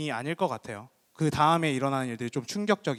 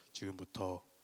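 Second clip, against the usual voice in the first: very deep, very quiet, solemn preacher voice; 7 semitones lower, 16 dB quieter than usual. Describing how an evangelist led a solemn session, the speaker uses a very low voice. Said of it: "굉장히 낮은 목소리로, 지금 제 목소리 이거 말고 지금부터 뭐 이런 목소리로".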